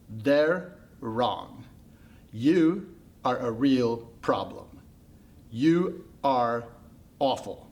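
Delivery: slow, emphatic affirmation; earnest insistence. Acted. Pandora assuring the haircut it is a problem, emphatically. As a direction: weigh every word to convince it.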